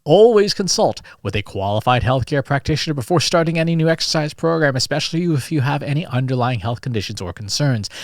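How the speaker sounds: formal disclaimer read like an announcer; official announcer voice. Shown as a demonstration. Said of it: "I'm gonna read this in official announcer voice".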